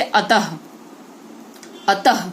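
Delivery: अतः ending in a breathy h; visarga demo. Shown as a demonstration. Teacher shows pupils the visarga in अतः. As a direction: let अतः end on a clear ह. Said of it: "विसर्ग लगा लेकिन ह की ध्वनि आई".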